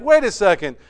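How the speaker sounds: a stunned disciple catching the shift; astonished question. Acted. Disciple suddenly realizing, loud surprised wait a second. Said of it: "he's like".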